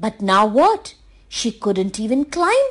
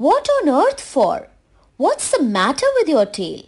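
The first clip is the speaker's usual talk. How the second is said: high surprised doctor voice; doctor asks in surprise; 5 semitones higher than usual. Acted.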